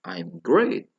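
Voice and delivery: "I'm great" climbing to a loud great; drilled "I'm great", lifted at the back. Shown as a demonstration. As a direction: push "great" up high. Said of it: "intonasinya lebih tinggi di belakang".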